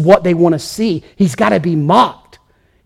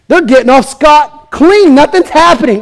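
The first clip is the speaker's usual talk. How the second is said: mock complaining crowd; 8 semitones higher, 4 dB louder than usual. People watching Assyria, indignant high complaint. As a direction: whine it like doubting onlookers. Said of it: "They thought".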